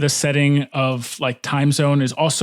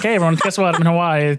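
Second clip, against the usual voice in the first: higher, playful acted announcement; spring it on them like mock breaking news; mock surprise announcement; 3 semitones higher than usual. Coworker springing Hawaii trip on the team, mock surprise announcement. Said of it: "not just, like, going to Hawaii and slacking".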